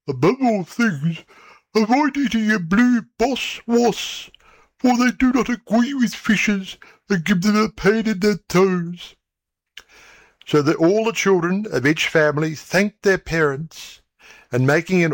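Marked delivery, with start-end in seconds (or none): 0.1-9.1 higher, lightly voiced fish; a touch higher, fish parent giving warnings; hint of a solemn old fish; old fishes' voice. A narrator's reading. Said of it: "And the old fishes said".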